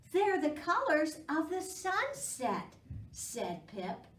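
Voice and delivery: gentle read-aloud for little ones; storybook reading. A narrator's reading. Reading a squirrel story aloud to children, gently. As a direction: read it like a picture book at storytime.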